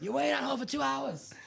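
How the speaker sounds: high, loud mock-incredulous voice; echoing the host impression. Cohost echoing the host impression, high and incredulous. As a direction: toss the quote back, amazed. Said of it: "He'll just go".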